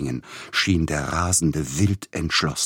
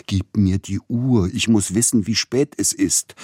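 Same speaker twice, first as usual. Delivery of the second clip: loud, higher, urgent plea for the watch; feverish demand; 5 semitones higher, 5 dB louder than usual. Acted. Delirious man demanding his watch back, loud and urgent. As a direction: demand it as if time is running out.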